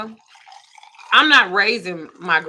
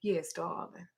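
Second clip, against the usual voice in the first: sweetly snide yes darling; mock-sweet put-down to a clerk; nice nasty; 2 semitones lower, 15 dB quieter, slower than usual. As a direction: fake politeness with bite. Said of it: "that don't mean that I'm being nice".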